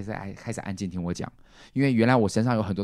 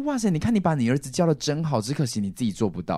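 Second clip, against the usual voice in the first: 讽刺; 5 semitones higher than usual. Retold or imitated. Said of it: "你不觉得很糗吗".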